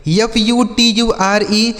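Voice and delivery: slow letter-by-letter spelling; each letter given its own beat. Shown as a demonstration. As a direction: spell it out slowly for learners. Spells words out for learners.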